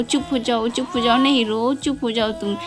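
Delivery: soft, low soothing for a toy doll; soothing hush. Pretend. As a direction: hush the doll gently, like a parent.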